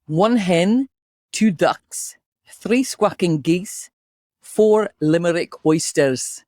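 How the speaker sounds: warm-up chant in a Scottish accent. Shown as a demonstration. Host leading co-host through warm-up, Scottish accent. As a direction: recite it with a Scottish accent, drawing out the last phrase. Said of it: "That was hard with the Scottish accent".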